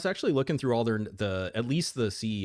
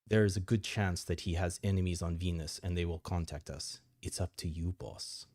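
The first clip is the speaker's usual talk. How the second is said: briefing narration; 2 semitones lower than usual. Acted. Advisor briefs the boss on dwindling supplies, narration. Reads game briefing aloud.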